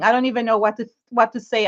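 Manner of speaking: stammering, lost for words; stuttering. Real, not acted. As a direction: trip over the words. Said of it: "literally stuttering".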